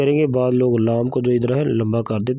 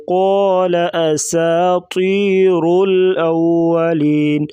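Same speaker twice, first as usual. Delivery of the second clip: قال أساطير الأولين chanted at even pace; steady melodic recitation; Quran recitation. Shown as a demonstration. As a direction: recite it plainly in tune. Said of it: "कॉफ को मोटा करेंगे".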